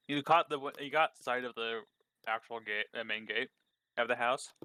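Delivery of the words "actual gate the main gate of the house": talking while munching snacks; mouth full. Real, not acted. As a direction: speak through a mouthful of food. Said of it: "I got snacks, so that's why I'm munching".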